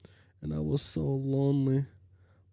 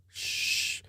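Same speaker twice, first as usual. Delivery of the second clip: hushing; 4 dB quieter than usual. Acted. Hushing Jade.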